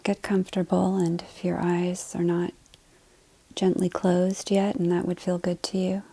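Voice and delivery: soft, unhurried meditation voice with long pauses; guided meditation. Acted. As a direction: gently guide them into the breath. Leads breathing to settle in.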